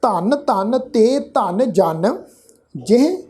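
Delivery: slow, word-by-word verse reading; measured scripture reading. Shown as a demonstration. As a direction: read each word of the verse slowly and distinctly. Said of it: "ਇਸ ਦਾ ਪਾਠ ਉਚਾਰਨ ਹੋਏਗਾ".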